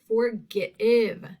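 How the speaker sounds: "Forgive" split as for-gih-IV; short I sound. Shown as a demonstration. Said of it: "That's short".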